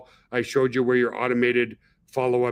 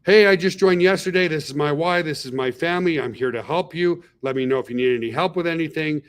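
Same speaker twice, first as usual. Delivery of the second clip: confident and welcoming. Shown as a demonstration. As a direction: pitch yourself with self-assured warmth. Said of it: "Like, that doesn't matter".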